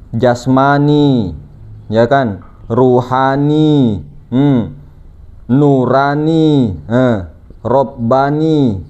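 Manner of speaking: each term jasmani, ruhani, nurani, robbani drawn out very slowly; teaching the four levels, slow list. Shown as a demonstration. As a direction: count the four words out deliberately. Listing four terms for congregation.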